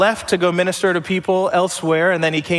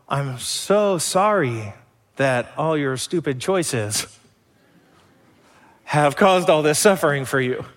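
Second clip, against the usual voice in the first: condescending pity. Retold or imitated. Mock pity for stupid choices.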